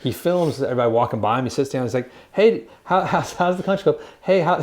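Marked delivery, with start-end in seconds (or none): 2.3-4.6 high, teasing sing-song greeting; mocking TikTok heckler. TikToker mocking golfers walking by, high teasing voice. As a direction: poke fun at the golfers passing by. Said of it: "He just makes fun of him".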